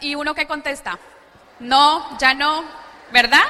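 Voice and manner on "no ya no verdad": mock offended refusal. Wife refusing the boots.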